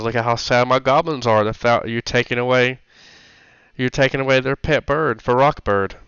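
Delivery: lightly voiced hobgoblin woman, pleading; a hint of a girlish goblin leader. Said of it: "I still have the girl voice on".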